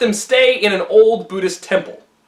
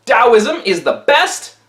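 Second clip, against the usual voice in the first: pompous boast; much slower than usual. Acted. Taoists boasting to the town.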